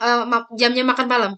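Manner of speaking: ordinary delivery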